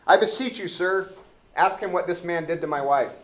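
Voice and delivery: eager, self-important officer complaining to the judge; Elbow the constable. Acted. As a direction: play the pompous dim-witted constable, up in pitch and loud. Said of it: "I wanna be elbow".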